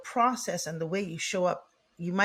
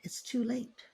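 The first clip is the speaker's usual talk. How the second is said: soft, wistful regret; regretful inner voice; 2 semitones lower, 3 dB quieter than usual. Retold or imitated. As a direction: let it sink quietly. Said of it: "And they think".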